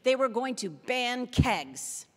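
slow, loud, sarcastic announcement; sarcasm. Real, not acted. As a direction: draw it out in mock amazement at the plan. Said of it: "that's sarcasm in my voice".

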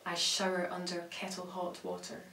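measured recital with long pauses between phrases; poetry reading. Acted. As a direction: let each image land, then pause. Reads poem about tea.

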